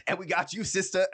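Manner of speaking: high, loud mimicked line; mock enthusiasm. Mimicking someone singling out a girl in the room, mock enthusiasm. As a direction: call it out high and gushy, mockingly.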